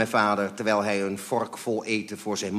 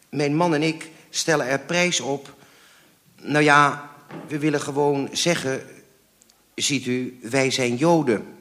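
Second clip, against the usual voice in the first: raised, halting but determined confession; desperate courage; 5 semitones higher, 7 dB louder than usual. A narrator's reading. Mother explaining to caller they are Jewish, desperate courage. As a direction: force it out bravely, pause by pause. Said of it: "met de moed der wanhoop".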